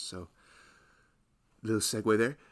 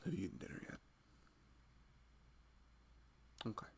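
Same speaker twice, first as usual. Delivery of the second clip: loving husband. Acted. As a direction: gently check in on your pregnant partner. Roleplays husband to pregnant wife.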